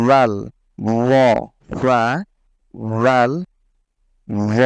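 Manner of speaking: ফা, রাল, র said with the tongue tip on the upper front teeth, light and thin; tongue tip on upper teeth, light articulation; thin, light Arabic ফা রাল র; Arabic letter demo. Shown as a demonstration. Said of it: "আমি আবার বলছি".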